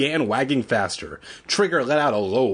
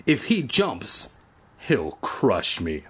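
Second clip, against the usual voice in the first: panicked; 5 semitones higher than usual. Acted. Evan fears the jumping dog.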